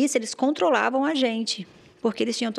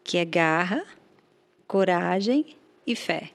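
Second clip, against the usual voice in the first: motivational quote. Shown as a demonstration. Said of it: "essa vai a frase".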